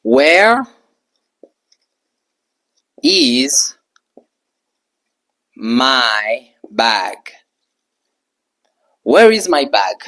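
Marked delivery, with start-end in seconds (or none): 0.0-7.2 slow model sentence. Shown as a demonstration. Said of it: "je peux dire".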